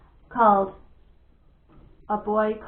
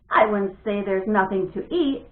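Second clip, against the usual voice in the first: teasing; 4 dB louder than usual. Acted. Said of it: "teased Janie".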